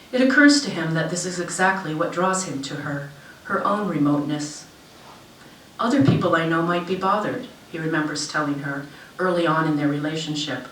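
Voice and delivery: measured literary reading with lifted phrase openings; story narration. A narrator's reading. Author reads short story to an audience, story narration. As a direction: read it aloud in deliberate, falling phrases.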